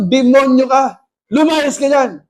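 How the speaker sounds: retold firm command to a demon; firm, without shouting. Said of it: "hindi ako sumisigaw". (matatag na utos, hindi pasigaw)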